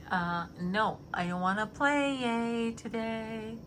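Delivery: slow, lightly put-on sulky voice; sulky mock Dex. Mimicking Dex refusing to play along, slow mock sulk. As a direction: whine it like a grumpy kid. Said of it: "he's like".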